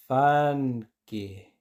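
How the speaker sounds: Fanke said slowly with a plain a; teacher says it slowly for learners. Shown as a demonstration. Slow plain take. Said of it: "Y ahora lentamente".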